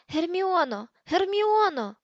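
high, loud cry for someone out of reach; bellowing. A narrator's reading. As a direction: yell the name out in desperation. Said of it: "знову зарепетував Рон".

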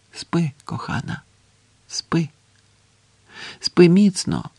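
tender lullaby-like farewell. Acted. Man to his sleeping beloved, tenderly. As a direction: soothe a loved one gently to sleep.

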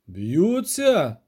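put-on a surprised echo of the boy's word. A narrator's reading. Neville hears the boy's news, surprised. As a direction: take the news in, puzzled. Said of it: "здивувався Невіль".

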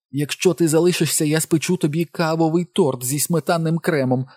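high-pitched, wheedling woman's voice; babbling bribes to make him stay; babbling, pleading wife. A narrator's reading. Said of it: "лепетала вона".

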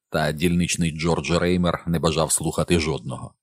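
usual speaking voice

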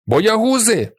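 high-pitched jeering shout; boy's cry. A narrator's reading. Second boy joining the abuse, high-pitched cry. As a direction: fling the insult out high. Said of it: "кричить інший".

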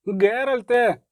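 high drawn-out wail; shrieking. A narrator's reading. Dandelion calls Geralt for help, shrieking. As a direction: shriek the name for help without full volume. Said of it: "верещав Любисток".

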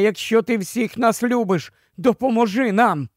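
usual speaking voice

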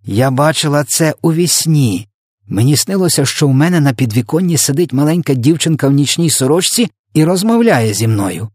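high-pitched, insistent queen recounting her dream; exclaiming. A narrator's reading. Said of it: "вигукнула королева".

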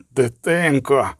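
slow, drawn-out groan of a word; moaned dismay. A narrator's reading. Vesemir protests to the sorceress, moaning. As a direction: moan it slowly in dismay. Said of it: "простогнав Весемір".

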